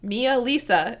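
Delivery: Mia Lisa as "MEE-uh LEE-suh"; correct pronunciation. Shown as a demonstration. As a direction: demonstrate Mia Lisa, two syllables each. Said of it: "is how you're supposed to say it".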